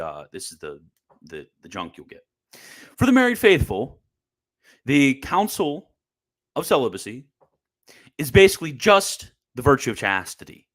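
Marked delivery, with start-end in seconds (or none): 3.0-10.7 mocking opponents. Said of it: "That's what they'll say".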